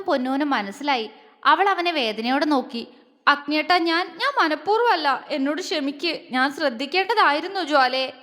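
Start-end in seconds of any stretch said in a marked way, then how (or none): 3.3-8.1 a tearful apology to her brother; apologising through sobs; sobbing. A narrator's reading. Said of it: "അവൾ തേങ്ങി".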